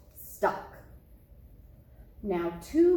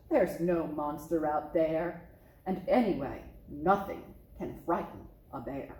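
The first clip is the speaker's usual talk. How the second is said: low, assured father bear voice; a dad proving there's nothing to fear; confident papa bear; 5 semitones lower than usual. Acted.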